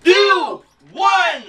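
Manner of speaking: shouted game show countdown, last words drawn out; loud countdown. Real, not acted. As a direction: call it out to the crowd. Host counting down, announcing segment.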